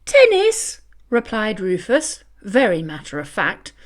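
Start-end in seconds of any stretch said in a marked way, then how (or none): 0.0-0.8 high, loud chirpy answer; a bright dog's one-word reply; dog answering the angry cat; lightly voiced dog. Rufus replying.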